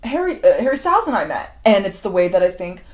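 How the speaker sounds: high, loud, pointed questioning; suspicious mock musing. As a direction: needle them with loud suspicion. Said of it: "she's like".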